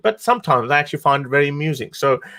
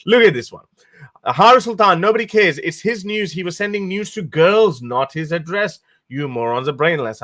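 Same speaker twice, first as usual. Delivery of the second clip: mock troll voice; 5 semitones higher than usual. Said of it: "You go".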